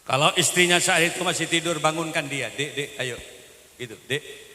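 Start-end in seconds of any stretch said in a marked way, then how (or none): 2.5-3.2 gentle call. Retold or imitated. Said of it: "Yang baguslah panggil istri itu". 4.1-4.5 soft call. Retold or imitated. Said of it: "Yang baguslah panggil istri itu".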